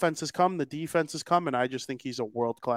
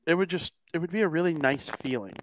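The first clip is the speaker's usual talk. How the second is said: crackly usb mic. Real, not acted. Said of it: "Now your mic is crackling a little bit".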